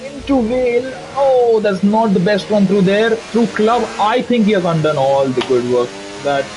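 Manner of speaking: animated motorsport lap commentary; live play-by-play. Real, not acted. Commentator calling a driver's qualifying lap, animated play-by-play. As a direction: follow the car corner by corner, building interest.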